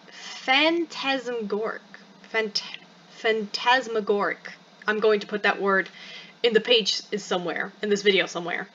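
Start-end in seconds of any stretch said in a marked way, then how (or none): 0.1-4.5 slow, halting try at "phantasmagoric"; sounding it out. Real, not acted. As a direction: feel out "phantasmagoric" slowly, breaking off after "Phant-". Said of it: "I do not know how to say this".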